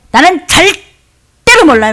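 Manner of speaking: high, loud, slow acted denial; emphatic mock protest; sworn denial. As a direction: swear you know nothing, stretching it out. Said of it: "맹세를 하고 부인해".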